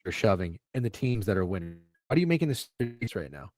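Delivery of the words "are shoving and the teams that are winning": robot voice. Real, not acted. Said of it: "You just sound like a robot".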